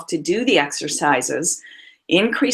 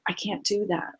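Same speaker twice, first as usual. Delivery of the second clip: much softer, shrinking away; a timid retold reply, pulling back; small voice; 3 semitones higher, 10 dB quieter than usual. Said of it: "she got really small and she said".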